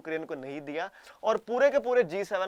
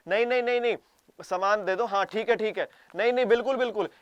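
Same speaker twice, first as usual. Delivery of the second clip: loud, higher hammed-up denials; mock double talk; 3 semitones higher, 3 dB louder than usual. Japan taking goods while denying it, loud mock denials. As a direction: overact the fake refusal. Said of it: "बोल रहे हो".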